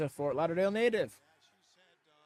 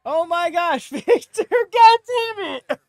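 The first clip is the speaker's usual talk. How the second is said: high, loud delighted yell; excited shriek; 12 semitones higher, 11 dB louder, slower than usual. Real, not acted. Viewer name surprises the host, delighted loud shriek. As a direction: squeal and laugh at the name.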